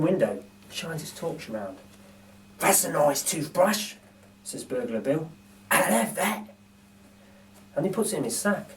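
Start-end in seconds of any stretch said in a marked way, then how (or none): 2.6-3.9 lightly voiced gruff burglar, slowed; a hint of a pleased thief eyeing loot; Burglar Bill voice. Narrator voices Bill admiring a toothbrush, lightly voiced. Bill's voice in read story. 5.7-6.5 lightly voiced gruff burglar, slowed; a hint of a pleased thief eyeing loot; Burglar Bill voice. Narrator voices Bill admiring a toothbrush, lightly voiced. Bill's voice in read story.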